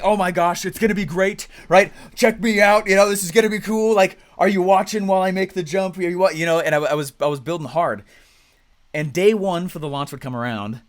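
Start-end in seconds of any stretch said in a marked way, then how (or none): 0.0-6.3 higher, louder, thrilled and boastful; excited bragging. Retold or imitated. Young funnel builder showing off his launch, excited. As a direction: crow about the new funnel like a kid showing off. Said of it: "I was like".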